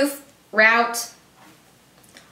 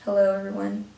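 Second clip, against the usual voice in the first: softer stiff "Hello, everyone"; mock formal; 6 dB quieter than usual. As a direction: joke stuffy greeting. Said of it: "No, just kidding".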